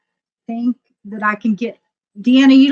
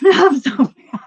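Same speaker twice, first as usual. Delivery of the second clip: mad; 6 semitones higher, 5 dB louder, slower than usual. Retold or imitated. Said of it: "I'm, like, mad".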